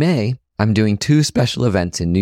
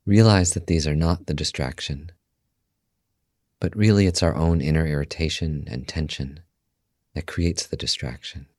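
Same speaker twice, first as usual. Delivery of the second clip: guided meditation; 4 semitones lower, 6 dB quieter than usual. Acted. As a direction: guide listeners calmly into stillness, softly and unhurried.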